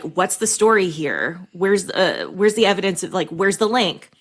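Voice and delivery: lightly bitchy reading of feedback; understated, demanding bitchy tone. Shown as a demonstration. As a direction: read it as a mildly snippy critic. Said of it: "in a very, very bitchy voice".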